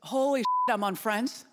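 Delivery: awed outburst at landing the job; awestruck disbelief. Retold or imitated. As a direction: blurt it out, stunned and thrilled. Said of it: "express that emotion".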